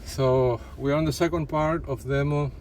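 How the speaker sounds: short of breath after running. Real, not acted. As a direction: talk while still out of breath. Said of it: "I'm just catching my breath".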